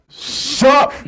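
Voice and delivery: high mock sister. Voicing the sister.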